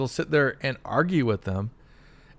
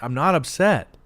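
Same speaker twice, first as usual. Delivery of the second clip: higher, louder mock denial; rising protest; 4 semitones higher, 6 dB louder than usual. Teased friend denying being upset, getting worked up. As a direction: protest it, punching the word upset. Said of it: "And you're like".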